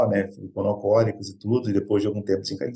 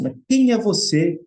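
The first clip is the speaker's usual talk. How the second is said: higher, slow, challenging demand; angry father; 7 semitones higher, slower than usual. Retold or imitated. Father angrily confronts the man who has come into his house. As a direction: sound like a father confronting a stranger. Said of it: "bravo, disse".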